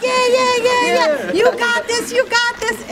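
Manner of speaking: high-pitched, rapid-fire rooting; excited, high chant of encouragement; retold cheering. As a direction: imitate a crowd cheering someone on. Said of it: "And we're cheering".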